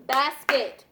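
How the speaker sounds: Basket said with a heavy first syllable; Basket, BAS punched, KET light; stress on BAS. Shown as a demonstration. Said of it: "listen to that".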